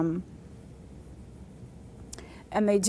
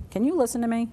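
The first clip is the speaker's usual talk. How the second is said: calling for attention; 4 semitones higher, 4 dB louder, faster than usual. Shown as a demonstration. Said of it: "I want to listen".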